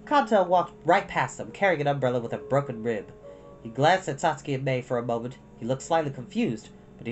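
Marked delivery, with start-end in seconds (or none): none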